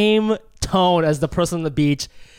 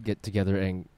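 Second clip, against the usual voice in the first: skit ad voices; 5 semitones lower, 7 dB quieter than usual. Acted. Skit ad role play.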